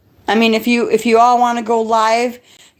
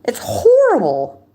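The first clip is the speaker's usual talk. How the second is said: tearful; slower than usual. Real, not acted. Distressed about the harassment.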